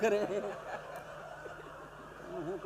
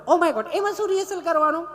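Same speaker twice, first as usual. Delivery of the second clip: much higher, dismissive posh gasp; prissy lady, shocked; 10 semitones higher, 4 dB louder than usual. Retold or imitated. Tourist scoffing at rehearsing, high and prissy. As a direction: toss off Oh my God like a spoilt city woman. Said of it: "ચીપી ચીપીને બોલે".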